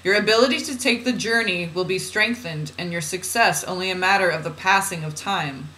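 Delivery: measured, deliberate spiritual reading; oracle reading. Acted. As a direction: read it out as solemn guidance. Reads channeled guidance aloud.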